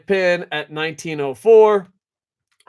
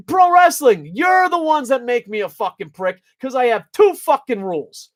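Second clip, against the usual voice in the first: ranting shout; 3 semitones higher than usual. Real, not acted. Angry rant at pro wrestling.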